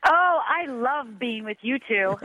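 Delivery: laughing. Real, not acted. Guest greets hosts laughing.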